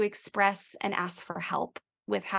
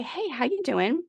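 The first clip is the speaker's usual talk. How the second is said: gentle check-in; 6 semitones higher than usual. Shown as a demonstration. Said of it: "you could just say".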